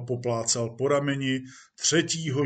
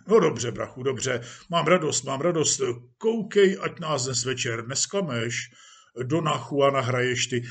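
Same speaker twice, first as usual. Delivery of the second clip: jovial police chief. Acted. Police chief urges actor about tonight, jovially. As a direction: chivvy an old pal good-naturedly. Chief chats with his protégé.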